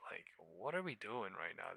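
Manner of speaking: ordinary talk, nothing marked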